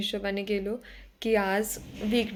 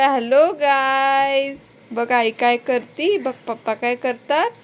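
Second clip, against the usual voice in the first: a hint of a little boy playing vlogger; imitating son; 4 semitones higher, 8 dB louder, slower than usual. Mother imitating her son vlogging into a mirror, lightly voiced. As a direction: drawl the hello like a kid with a mirror. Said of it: "तो आरसा घेऊन सगळ्यांना म्हणतोय".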